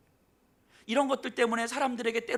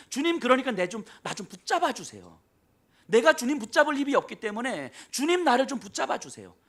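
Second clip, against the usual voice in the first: louder, urgent begging to the Lord; loud pleading prayer; 5 semitones higher, 7 dB louder than usual. Acted. Believer begging the Lord to hold them, loud and urgent. Preacher voices believer's plea.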